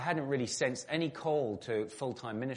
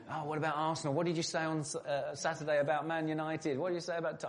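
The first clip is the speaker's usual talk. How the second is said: higher, keen imitation of classmates asking about football; mock the seminary guys, pitched up and eager; 6 semitones higher, faster than usual.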